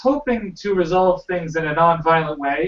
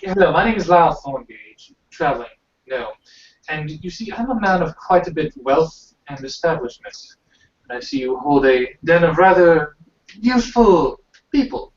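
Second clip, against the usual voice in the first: put-on British accent. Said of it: "Can I do British accent now".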